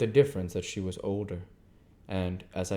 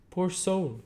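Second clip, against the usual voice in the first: prim lady; 11 semitones higher than usual. Acted. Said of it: "Camilla presently went on".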